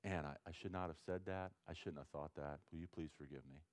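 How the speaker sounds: soft, low sincere apology to God; quiet prayer. Shown as a demonstration. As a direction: pray it softly and humbly. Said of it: "here's the way it is with God".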